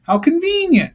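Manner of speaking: high, loud sarcastic jab; mock the lucky coincidence. Real, not acted. Mocking a cartoon plot device.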